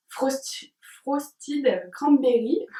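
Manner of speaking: "Frosted Cranberry" said slowly in a strong French accent, every syllable spelled out; French accent on English. Real, not acted. Vlogger naming her candle scent to viewers, in slow, careful French-accented English. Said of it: "Toujours mon super accent".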